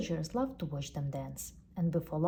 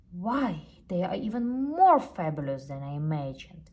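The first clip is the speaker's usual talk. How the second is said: bellowing; 6 dB louder than usual. Acted. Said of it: "he bellowed".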